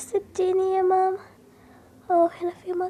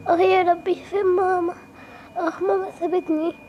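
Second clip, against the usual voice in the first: crying. Acted. Lost girl crying for mother.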